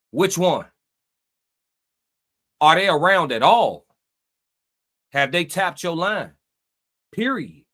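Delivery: measured speech with long pauses between phrases; deliberate monologue. Acted. Host lecturing chat on learning who stays when you're down, deliberate monologue. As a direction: let each phrase land, stretching the key words.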